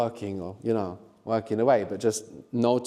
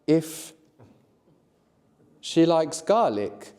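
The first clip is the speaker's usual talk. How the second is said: slow example sentence; much slower than usual. Shown as a demonstration. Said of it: "So you could say, for example".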